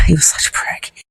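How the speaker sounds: hushed and scornful, under the breath; whispered contempt. Real, not acted. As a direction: whisper it in disgust. Contempt for abusive neighbour.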